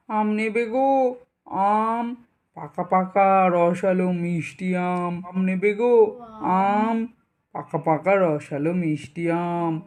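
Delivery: sing-song street vendor calling out her mangoes; hawker's call. Acted. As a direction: drawl the calls like a village mango seller. Mango seller hawking at doors. (আম বিক্রেতার সুর করে হাঁক)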